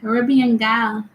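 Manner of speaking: half-hearted attempt at a Caribbean accent. Shown as a demonstration. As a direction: try a Caribbean lilt, not quite landing it. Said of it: "I can't do the accent".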